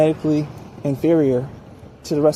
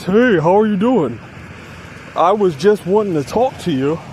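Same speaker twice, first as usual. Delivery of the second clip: nervous guy. Shown as a demonstration. Man nervously approaching a woman he likes, lightly voiced nervous. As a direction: lightly play a jittery man chatting up a woman. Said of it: "You may talk like this".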